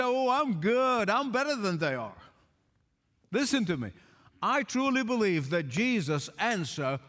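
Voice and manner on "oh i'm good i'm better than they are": smug self-praise. Acted. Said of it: "pat yourself on the back and say".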